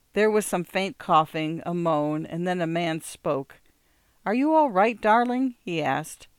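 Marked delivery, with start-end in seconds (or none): 4.3-5.5 higher-pitched anxious question; tender concern. A narrator's reading. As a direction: check gently on a loved one. Husband checks on ailing wife.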